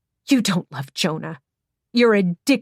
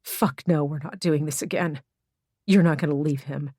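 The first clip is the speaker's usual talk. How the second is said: disgusted; 2 semitones lower than usual. Acted. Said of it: "in disgust".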